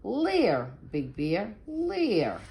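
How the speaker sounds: lilting call with high lair; tree's call. Acted. Bear mishearing the tree, a high lilting call. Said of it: "He thought Tree said".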